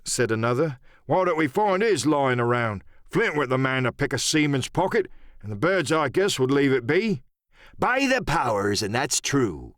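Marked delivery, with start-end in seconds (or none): 1.1-7.2 another pirate. Acted. 7.8-9.7 Silver. Acted.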